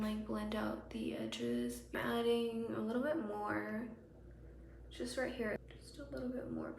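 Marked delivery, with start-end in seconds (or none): 0.0-3.8 whispering. Real, not acted. Whispered aside while applying.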